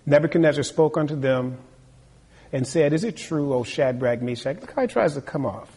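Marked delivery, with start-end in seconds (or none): 2.9-4.6 sarcastic king. Acted. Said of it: "the sarcasm".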